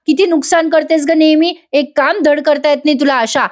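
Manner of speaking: lightly acted exasperated aunt; acted scolding. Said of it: "त्या बाईला खूप बोलतात".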